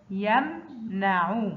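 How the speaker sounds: يمنع very slow, split after يم; sukun mid-word. Shown as a demonstration. Teacher models mim mid-word, يمنع very slow and split. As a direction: stretch يمنع, resting on vowelless م. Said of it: "وسط الكلمة مثل".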